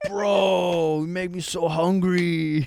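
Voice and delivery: flirty guy voice. Retold or imitated. Greek men in DMs.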